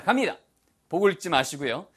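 ordinary talk

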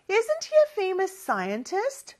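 slow rising question; slow drill. Shown as a demonstration. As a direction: repeat it slowly for students. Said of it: "일단 요 문장은". (천천히 올려 묻는 연습)

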